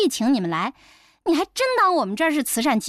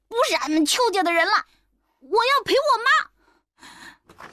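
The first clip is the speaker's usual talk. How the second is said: higher, angry grandmother's calling voice; calling out angrily; 7 semitones higher than usual. A narrator's reading. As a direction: grandmother furiously calls her grandson home. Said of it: "向淑芬气冲冲地在诊室的门口喊". (奶奶在诊室门口生气地喊孙子)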